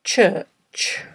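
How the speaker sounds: slow, careful single word; slow dictation. Shown as a demonstration. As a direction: read it out slowly, pausing long between repeats. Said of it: "read ten words aloud slowly".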